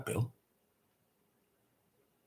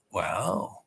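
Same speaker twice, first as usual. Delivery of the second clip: awed whisper; 3 semitones lower, 6 dB quieter than usual. Retold or imitated. Admiring coral tree bark.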